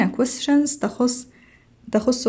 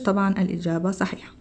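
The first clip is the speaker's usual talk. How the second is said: whispered aside; 4 semitones lower, 5 dB quieter, much faster than usual. Real, not acted.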